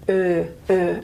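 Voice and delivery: "er" long, tongue forward, lips slightly rounded; Australian er vowel. Shown as a demonstration. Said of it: "and the tongue is quite forward".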